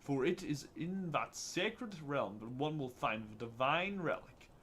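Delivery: slow, solemn fantasy narration; grand voice acting. Guardian warning of the evil man's search, grand voice acting. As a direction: recite it as weighty ancient lore. Reads game dialogue in put-on voice.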